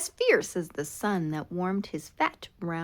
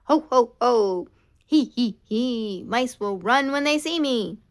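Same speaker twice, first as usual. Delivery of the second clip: loud ho ho he he cackle; fierce pumpkin gloating loudly; scary cackle; 3 semitones higher, 8 dB louder than usual. Acted. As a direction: gloat with a spooky laugh.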